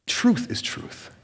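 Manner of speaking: slow, breathy hush on truth is truth; hushed emphasis. Real, not acted. Preacher hushing the congregation, slow and breathy. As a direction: lean in and let it land softly.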